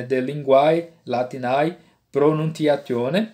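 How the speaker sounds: "linguae latinae pronunciatione" in restored pronunciation, t kept hard; scholarly classical Latin, "pronunciatione" as pronuntiatione. Shown as a demonstration. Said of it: "é a pronúncia reconstituída".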